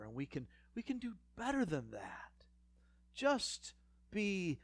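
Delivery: breathy whisper of a tempter; whispered temptation. Retold or imitated. Preacher voicing the whispering tempter, hushed. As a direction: whisper it like a secret lure.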